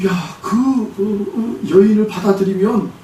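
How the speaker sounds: slow, crying halting words; tearful. Retold or imitated. God answering the mother's anguished prayer, tearful and halting. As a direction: choke up as the words come out.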